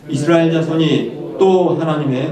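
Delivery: 또 drawn out and emphasized; stress on 또. Shown as a demonstration. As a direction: lean on the word 또 as you read. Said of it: "또를 크게 읽어야 됩니다".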